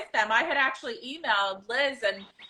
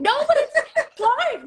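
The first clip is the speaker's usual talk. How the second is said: laughing; 13 semitones higher, 5 dB louder than usual. Real, not acted. Laughing protest, high and loud.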